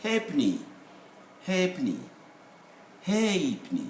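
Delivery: "halfpenny" as HAYP-nee, the F silent; contracted halfpenny. Shown as a demonstration. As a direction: say "halfpenny" in two syllables, without F. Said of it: "we would say halfpenny".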